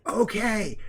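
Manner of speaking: deafened person's idea of quiet; failed attempt at quiet. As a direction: try to be quiet and fail. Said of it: "trying to quiet myself".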